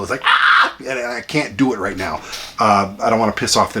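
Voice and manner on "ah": squeal. Shown as a demonstration. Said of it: "really high registered squeal".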